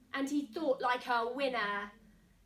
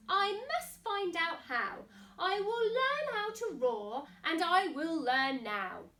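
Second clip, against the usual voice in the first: higher, eager resolve; determined mouse; 3 semitones higher, 4 dB louder than usual. Acted. Mouse resolving to learn, eager and higher. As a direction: vow it with rising eagerness. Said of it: "thought the mouse".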